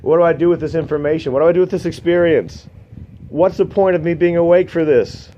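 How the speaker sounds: high, rising existential questioning; bewildered inner voice. Retold or imitated. His thoughts while watching, high and bewildered. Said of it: "and I'm just like".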